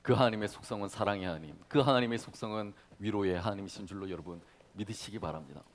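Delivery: usual speaking voice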